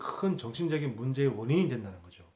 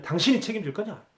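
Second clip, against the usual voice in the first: imitating angry mother; 6 semitones higher than usual. Preacher retelling the mother scolding the reporter, mock angry. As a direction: snap back like the defensive mother, half acted. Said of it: "막 화를 내는 거예요".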